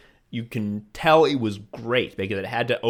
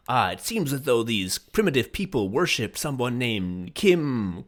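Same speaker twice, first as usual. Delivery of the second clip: lightly voiced puzzled future scholar; drawn-out, mangled "Kardashian"; mock future scholar. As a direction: sound out "Kardashian" slowly as if unknown. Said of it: "mispronounce the name of the famous person".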